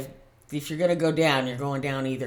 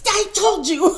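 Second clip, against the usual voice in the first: told you so; 11 dB louder, slower than usual. Retold or imitated. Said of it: "And I'm like".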